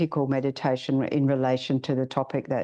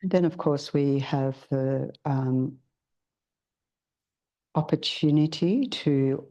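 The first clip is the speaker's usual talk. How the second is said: guided meditation. Acted. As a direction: ease the group gently into stillness.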